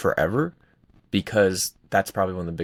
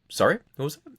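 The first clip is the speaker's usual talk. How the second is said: mock mentor; 8 semitones higher than usual. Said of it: "He's like".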